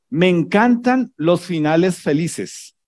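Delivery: drawn-out mock delight on "encantan"; sarcastic. Video caption read sarcastically to the congregation. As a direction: say it dripping with irony. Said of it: "con sarcasmo".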